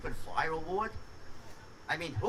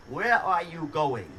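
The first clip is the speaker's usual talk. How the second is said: phone menu voice; 4 dB louder, slower than usual. Retold or imitated. Automated menu, slow question.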